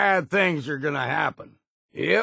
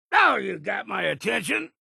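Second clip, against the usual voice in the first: battle shout; 9 semitones higher than usual. Acted. Combat shout after being hit.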